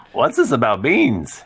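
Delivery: Jimmy. Acted. Jimmy quizzes Scud about beans, slow character voice. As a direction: draw out the curious question.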